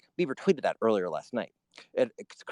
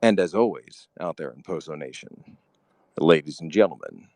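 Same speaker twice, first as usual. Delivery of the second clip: Poso voice; 6 semitones lower than usual. Pretend. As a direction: savour each word like a smooth radio host. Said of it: "the Poso voice".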